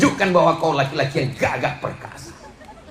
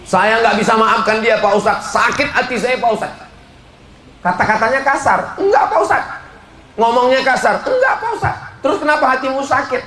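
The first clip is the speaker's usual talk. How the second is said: whiny complainer; 8 semitones higher than usual. Acted. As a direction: whine it like a hurt congregant, much higher. Aggrieved congregant complains to cleric. (jamaah yang mengeluh dengan suara tinggi merengek)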